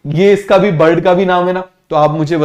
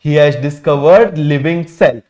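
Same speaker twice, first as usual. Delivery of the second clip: very slow, word by word; teacher spelling out the answer slowly; slow dictation; 3 semitones lower, much slower than usual. Shown as a demonstration. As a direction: dictate it slowly so they can write. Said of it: "क्या discover किया बेटा".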